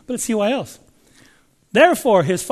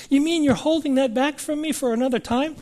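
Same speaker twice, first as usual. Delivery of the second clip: a touch higher, doubtful question; mock skeptical listener; 6 semitones higher, faster than usual. Preacher voicing a doubting churchgoer, lightly higher. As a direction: play the doubter a little higher. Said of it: "I didn't say that".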